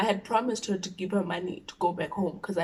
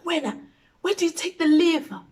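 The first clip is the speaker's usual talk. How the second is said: high, hammed-up scolding mother; exaggerated angry mom; 9 semitones higher, 5 dB louder than usual. Mother shouting at the friend, mock outraged. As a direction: overplay the furious mom. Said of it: "That's not how she said it. I like exaggerating".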